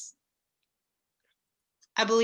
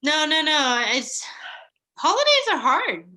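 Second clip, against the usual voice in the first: louder, high-pitched and holding back tears; real upset, voice jumping up; trying not to cry; 7 semitones higher, 6 dB louder than usual. Real, not acted. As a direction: push the words out through welling tears. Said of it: "now I'm trying not to cry".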